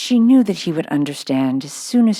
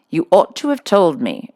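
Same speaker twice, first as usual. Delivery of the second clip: louder, stung and embarrassed outburst; mortified exclamation; 6 dB louder than usual. A narrator's reading. Headmistress caught out by the new pupil, mortified exclamation. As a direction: blurt it out, caught out in front of everyone. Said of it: "exclaimed Miss Minchin, much mortified".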